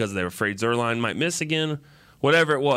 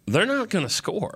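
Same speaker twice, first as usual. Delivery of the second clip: slow, much higher put-on voice, drawn out; a slow, higher fan voice sure they won't score; mock confident fan; 11 semitones higher than usual. At the goal line, telling co-hosts how he felt: slow, high mock certainty. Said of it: "And I'm like".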